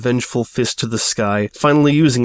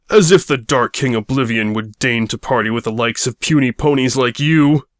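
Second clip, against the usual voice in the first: spat scorn. Acted. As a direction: spit it at the pony. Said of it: "He spat".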